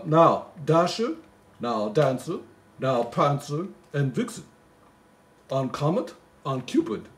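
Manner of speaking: slow, lilting Christmas poem reading; poem recital. Acted. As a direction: read it like a bedtime Christmas poem.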